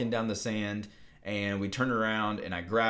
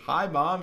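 raised, puzzled HI, MOM; questioning; 7 semitones higher, 5 dB louder than usual. Retold or imitated. Girlfriend turns around to greet mom on the phone, questioning. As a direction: lift "Hi, Mom" higher and louder, unsure. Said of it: "in a very questioning way".

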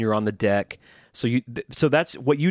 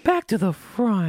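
much higher, put-on voice; goofy cartoon wrestler voice; Hulk Hogan impression; 10 semitones higher, slower than usual. Guest mocks Hulk Hogan to the host in a high put-on voice. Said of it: "talks like this".

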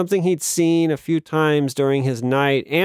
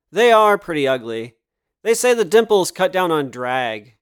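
put-on mid-Atlantic accent; 2 semitones higher than usual. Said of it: "mid-Atlantic accent".

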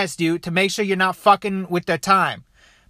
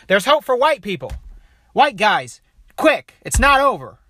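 rallying; 4 semitones higher, 3 dB louder than usual. Real, not acted. Rallying call to white guys.

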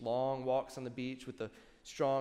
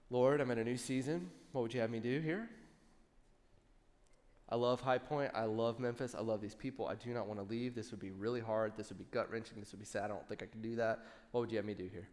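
prayer; 3 semitones lower, 5 dB quieter than usual. Retold or imitated. Praying in the car.

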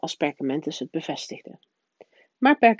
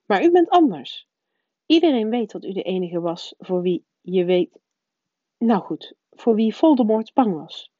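higher, louder prim schoolmistress, insistent; the strict witch pressing her point; stern professor voice; 4 semitones higher, 4 dB louder than usual. A narrator's reading. McGonagall voiced by the narrator.

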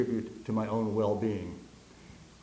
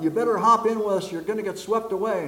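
higher and louder, calling from a rowboat; shouting rescuers; 7 semitones higher, 5 dB louder than usual. Acted. Rescuers in rowboat call to man on roof, shouting. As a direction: yell the warning across the water. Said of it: "the people shout".

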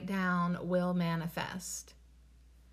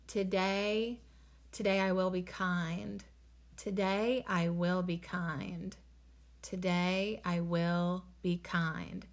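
slow affirmation demo; slower than usual. Shown as a demonstration. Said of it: "If you're gonna state your intention".

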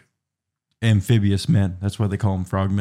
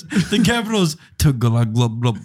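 dinosaur voice; 3 semitones higher than usual. Retold or imitated. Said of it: "They're making dinosaur noises".

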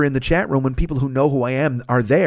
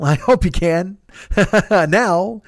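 laughing; 4 semitones higher, much slower than usual. Real, not acted. Host laughing to his listeners about his excitement. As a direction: giggle it out, can't hold it in. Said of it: "Can you tell?".

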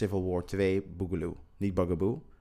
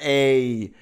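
loud greeting; 3 semitones higher, 6 dB louder than usual. Retold or imitated. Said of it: "Heb je gezegd".

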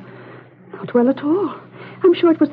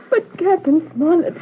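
slow, high, distressed plea; tearful protest; 4 semitones higher than usual. Acted. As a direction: protest on the edge of tears. Daughter distraught at the window.

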